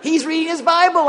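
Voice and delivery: high, loud laughing amazement; mom's loud laughing astonishment; astonished mom. Retold or imitated. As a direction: gasp it out in delight.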